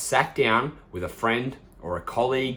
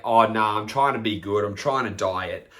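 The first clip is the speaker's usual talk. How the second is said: offhand, half-hearted excuse; casual brush-off. Retold or imitated. Dieter at a bar turning down drinks, casual. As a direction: toss it off without conviction. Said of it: "you just say it so casually".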